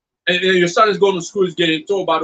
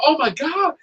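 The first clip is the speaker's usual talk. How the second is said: mock weepy grandma; 9 semitones higher, slower than usual. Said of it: "like, fucking crying".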